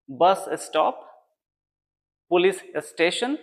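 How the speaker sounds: बस स्टॉप, पुलिस स्टेशन with the s kept on the second word; बस स्टॉप split before the s; wrong pronunciation. Shown as a demonstration. Teacher listing common wrong pronunciations. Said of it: "तो ये गलत sound है".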